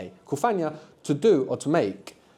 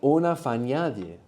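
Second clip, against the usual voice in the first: "Una fagnaglia" with the next-to-last syllable stressed; stress on penultimate syllable. Shown as a demonstration. Teacher showing the class where the accent falls, stress on penultimate syllable. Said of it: "we like the accent on the penultimate syllable".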